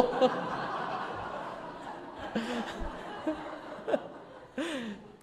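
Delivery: tender apology. Retold or imitated. Father apologizing tenderly to son.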